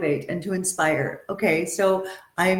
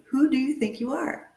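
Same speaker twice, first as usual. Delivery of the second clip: higher, rising like a real question; curious, uplifting; 6 semitones higher than usual. Shown as a demonstration. Coach reframing the scold as a hopeful question. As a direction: ask it with wonder, not blame. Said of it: "Let's look at it differently".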